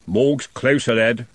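lightly voiced old constable; weary constable. A narrator's reading. Constable Haddock telling Trev the body is dead, weary. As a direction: tell the boy the truth.

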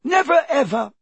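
very high, loud elf wail. A narrator's reading. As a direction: wail out each word, overcome. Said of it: "he wailed".

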